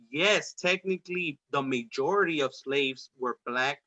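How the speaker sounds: slow sentence leaning on the word "majority"; stress on majority. Real, not acted. Conceding a point in arguments about slaves, stress on "majority". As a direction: draw out the line and emphasize "majority". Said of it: "Emphasis on the word majority".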